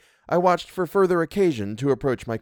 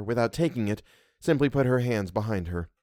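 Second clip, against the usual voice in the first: usual speaking voice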